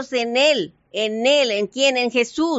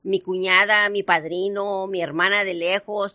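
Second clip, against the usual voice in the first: excuse to the pastor; 4 semitones lower than usual. Retold or imitated. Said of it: "le tienes que hablar al pastor y decir".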